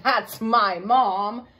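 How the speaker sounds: giggling. Acted. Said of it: "giggled and said".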